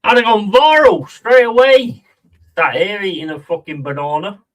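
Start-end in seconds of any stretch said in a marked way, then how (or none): 0.0-2.0 loud excited boast. Real, not acted.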